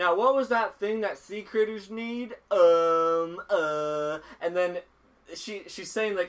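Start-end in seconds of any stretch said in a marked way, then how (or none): 0.0-4.2 put-on stupid-sounding redneck voice, higher and louder. Retelling a cartoon scene, imitating a character's dumb redneck voice. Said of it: "It's changing her voice to, like, a stupid person".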